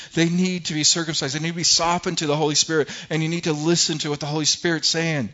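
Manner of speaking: pointed rebuke. Acted. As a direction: lay into the experts, pressing point after point. Acting Stephen confronting the council.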